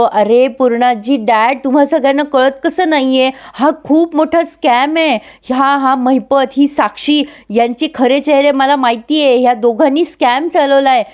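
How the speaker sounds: begging them to finally listen; pleading desperately. Retold or imitated. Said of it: "जीव तोडून सांगत". (जीव तोडून, उंच आवाजात विनवणी)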